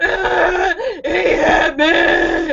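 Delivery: very slow sobbed words, dragged out. Speaker retells being led away to give a statement, re-enacting her own sobbing. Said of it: "I'm sobbing".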